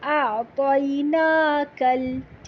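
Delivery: أَعْطَيْنَاكَ with a soft, not sharp, kaaf, slow. Shown as a demonstration. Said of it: "کاف بہت کڑک نہیں پڑھیں گے". (نرم کاف کے ساتھ)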